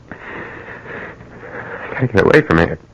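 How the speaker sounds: slow, breathless whisper after the shooting; panicked whisper. Acted. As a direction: whisper to himself in shock.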